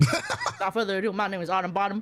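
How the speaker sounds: theatrical self-introduction with a grand air; hammed-up grand introduction; dramatic flair. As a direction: introduce yourself like a flamboyant author. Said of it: "a little dramatic flair".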